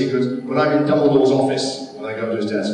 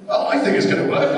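high-pitched; 13 semitones higher than usual. Retold or imitated. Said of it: "I said".

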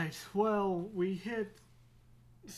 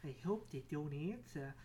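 anxious plea climbing higher into rapid repeats; mock panic spiralling up, then winding down; panicky inner voice; 4 semitones higher, 3 dB quieter than usual. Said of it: "you hear that voice like".

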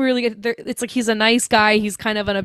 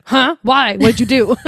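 louder, startled questioning; mock bewildered reaction; 6 dB louder than usual. Reader reacting to her odd remark, mock bewildered. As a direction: fire off baffled questions in mock alarm.

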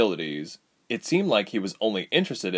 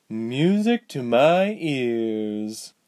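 cold villain; 4 semitones higher, much slower than usual. Acted. Villain woman voiced slowly.

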